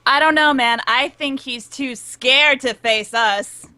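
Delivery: show-off. Acted. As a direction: show off for the crowd as you goad him. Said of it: "kinda show-off type thing".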